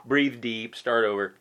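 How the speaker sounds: high shouted frustration sinking into forced calm; mock frustrated believer. Preacher mimicking an angry listener who bottles it up, high then calming. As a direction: act out a churchgoer swallowing his anger. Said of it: "And you".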